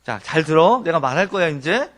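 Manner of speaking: God voiced as a stern parent; God talking plainly. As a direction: grab the people's attention bluntly. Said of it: "이렇게 말씀하는 거예요".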